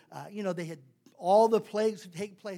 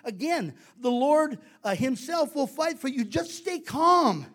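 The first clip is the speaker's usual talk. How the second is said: a hint of a leader rallying people; lightly acted proclamation to a frightened crowd; Moses; 5 semitones higher, 3 dB louder than usual. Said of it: "Moses told the people".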